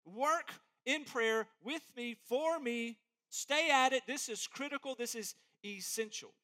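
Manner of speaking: an earnest apostle begging the church; urgent plea. Retold or imitated. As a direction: plead with full urgency. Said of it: "He's urgent".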